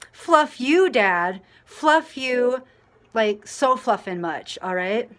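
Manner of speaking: high, loud, sassy mock scolding; mock telling off. The teller pretends to scold the cursing dad, loud mock scolding. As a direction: give it back to the rude dad, hammed-up.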